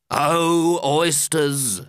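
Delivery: lightly voiced hailing carpenter; a mild drawn-out call. Carpenter calls to the oysters, lightly hailing. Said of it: "said the carpenter".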